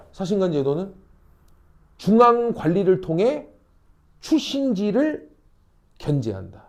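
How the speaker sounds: 사신관 제도는 rising, then slow, word by word; teacher models the answer slowly. Shown as a demonstration. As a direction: dictate it slowly for notes. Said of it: "설명하면 돼".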